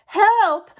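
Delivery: high, loud, drawn-out shout; cry for help. Acted. Trapped Watsons call to the arriving firemen, shouting. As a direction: call out to be rescued.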